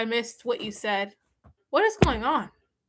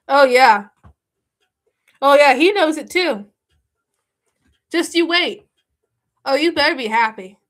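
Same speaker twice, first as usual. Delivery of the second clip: loud gloating; 8 dB louder than usual. Real, not acted.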